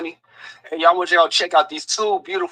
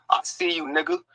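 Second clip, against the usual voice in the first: flat read; 2 semitones higher, 6 dB quieter than usual. Retold or imitated. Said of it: "But she didn't say it like that".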